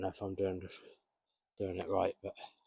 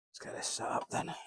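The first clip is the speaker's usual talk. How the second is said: breathy hushed whisper. Real, not acted. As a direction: keep it under your breath. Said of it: "Trying to be as quiet as I can".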